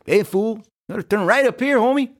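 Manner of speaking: put-on high, Chicano street Cholo accent. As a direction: talk like a Cholo homie. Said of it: "Cholo app".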